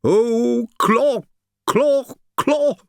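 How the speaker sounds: high, loud, mocking imitation of a stammer; the Sibyl mocks Claudius's stammer in a high, loud voice; mocking mimicry. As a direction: throw his stammer back at him with scorn. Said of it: "and mimicked me".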